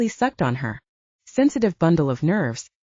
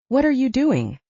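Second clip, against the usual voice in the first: breathless, higher question; 6 semitones higher than usual. A narrator's reading. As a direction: ask it out of breath. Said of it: "she asked breathlessly".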